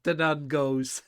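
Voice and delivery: teasing slow imitation of an Irish accent; mock Irish accent. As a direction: mimic the Irish lead-in, slowly. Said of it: "you got into your Irish accent".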